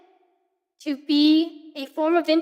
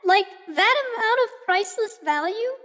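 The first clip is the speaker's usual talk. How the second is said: put-on bubbly valley girl, stretching every totally. Shown as a demonstration. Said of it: "I don't have to talk like that anymore".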